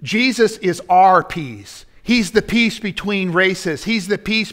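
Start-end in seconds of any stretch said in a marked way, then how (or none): 0.0-1.8 slow, with our leaned on; slow down and press the word our; stress on our. Shown as a demonstration. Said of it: "I want to emphasize that word "our".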